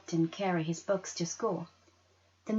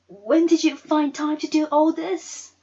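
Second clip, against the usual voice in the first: amazed; 9 semitones higher, 9 dB louder than usual. Acted. Girl amazed at Mama.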